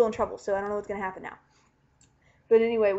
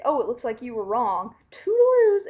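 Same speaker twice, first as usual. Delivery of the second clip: mock cocky; 3 semitones higher, 6 dB louder than usual. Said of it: "cocky, cocky, and he's like".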